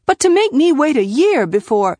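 aggrieved, heated objection; anger. A narrator's reading. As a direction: protest with rising anger, cut off mid-sentence. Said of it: "The emotion she could deal with best was anger".

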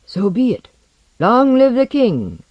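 high, loud, resolute acclamation. A narrator's reading. Younger one joining the others' homage, resolute. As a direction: commit firmly, then raise the cry. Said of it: "said resolutely".

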